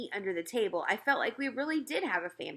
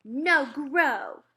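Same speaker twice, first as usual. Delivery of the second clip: put-on high, loud little-kid demand; a stubborn toddler pushing away his plate; bossy small boy shouting up at his mother; toddler refusing food; 6 semitones higher, 6 dB louder than usual. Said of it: "Fudge said".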